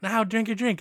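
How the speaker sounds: high, loud, cutesy cheer; exaggerated bubbly delight; mock maid cheer. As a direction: burst out like a perky cafe maid. Imitates maid cheering after chant.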